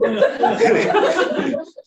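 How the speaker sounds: high breathy laughter; real laugh. Real, not acted. Teacher still laughing at the joke. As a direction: keep laughing.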